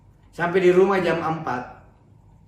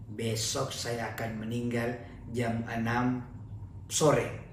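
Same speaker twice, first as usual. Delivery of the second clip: quiet resignation; 5 semitones lower, 8 dB quieter, slower than usual. Acted. Man resigned to death.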